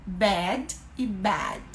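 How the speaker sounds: slow Bad e bad, mouth small then wide; slow contrast between bed and bad. Shown as a demonstration. Teacher slowly contrasting bed and bad for a viewer. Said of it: "Bad é o som de E".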